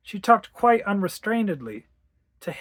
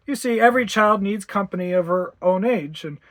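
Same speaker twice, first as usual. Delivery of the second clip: lightly voiced doctor, louder and measured; sympathetic doctor; 4 semitones higher, 5 dB louder than usual. Doctor advising worried mother, sympathetic and assured. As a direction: reassure like a professional, slightly raised voice.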